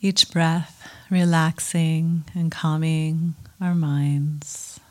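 calm meditation guide with long pauses; guided meditation. Acted. Teacher settling a group into mindfulness practice, calm guiding voice. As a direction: settle listeners in gently, leaving space between phrases.

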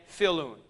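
filun, with no h sound at the start; Greek word said aloud. Shown as a demonstration. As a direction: say filun with a plain vowel onset. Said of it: "eh, not he".

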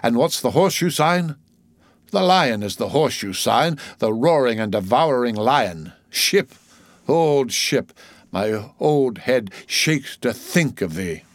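put-on theatrical old seaman pondering an omen; old sailor soliloquy. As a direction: read it as an old sailor's grave musing, slowing at the end. Voices old Manxman in soliloquy.

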